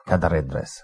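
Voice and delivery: "Cadaredres" run together as one word; Welsh name demo. Shown as a demonstration. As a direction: glide through "Cadaredres" as "kadar-EDress". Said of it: "kind of glom together".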